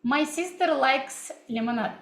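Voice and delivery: English in a Russian accent. Shown as a demonstration. Teacher testing chat viewers with a sample sentence, Russian accent. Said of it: "I was also speaking in this way".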